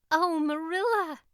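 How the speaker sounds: high, loud delighted cry of a name; excited exclamation. A narrator's reading. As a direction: burst in calling out with joy. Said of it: "she exclaimed".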